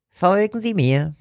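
rasping voice. A narrator's reading. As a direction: rasp out the order curtly. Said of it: "schnarrte der Ladenbesitzer".

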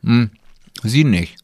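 talking around an ice cube; ice in mouth. Real, not acted. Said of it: "Ich hab grad einen Eiswürfel im Mund".

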